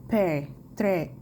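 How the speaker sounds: "Père" and "trait" with wide open è; open è demonstrated. Shown as a demonstration. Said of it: "Le son est plus ouvert". (« Père », « trait », avec è ouvert)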